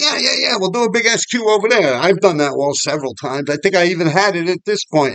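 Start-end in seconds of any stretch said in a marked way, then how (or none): 0.0-1.9 higher-pitched yes-man reply; retold eager agreement. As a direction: act out readily going along, pitched up.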